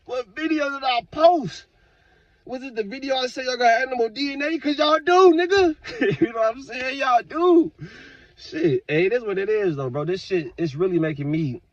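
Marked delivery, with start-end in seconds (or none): 0.0-5.8 a put-on voice, baffled and fed up; exasperated. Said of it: "y'all, like".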